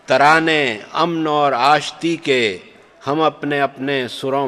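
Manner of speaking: measured recital, each line repeated; stately nazm recitation. Acted. Poet recites nazm Shanti.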